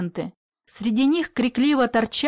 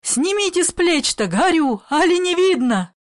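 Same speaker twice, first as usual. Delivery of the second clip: raised pained urging; urgent burning plea; 6 semitones higher than usual. A narrator's reading. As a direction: demand they pull off the burning cloth. Grandmother burning, begging help.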